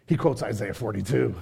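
normal talking voice

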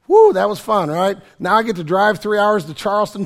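ordinary talk

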